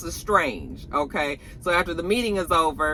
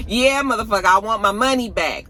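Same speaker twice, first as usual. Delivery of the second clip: brash demand; 4 semitones higher, 3 dB louder than usual. Retold or imitated. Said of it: "he was like".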